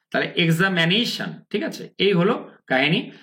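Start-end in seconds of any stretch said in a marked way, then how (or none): 0.4-1.4 এক্সামিনেশন ending in an open "shan"; American pronunciation. Shown as a demonstration. Teacher concluding for learners, American pronunciation. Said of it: "আমেরিকায় বলে শান".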